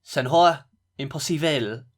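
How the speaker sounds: put-on slow, careful Portuguese accent on Senhor Impossível; Portuguese attempt. Showing he can do Portuguese, slow Portuguese accent. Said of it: "I can do Portuguese".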